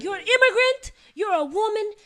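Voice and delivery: loud, high, stern father lecture; stern dad. Retold or imitated. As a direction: bark it like a strict immigrant dad. Dad's strict lecture, retold.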